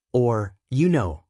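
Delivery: slow hesitant filler; filler words. Shown as a demonstration. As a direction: drag out the filler. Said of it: "fill every pause with".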